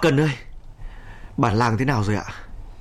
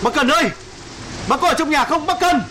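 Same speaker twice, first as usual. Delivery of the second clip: calling out. Acted. Calling out into collapsed house.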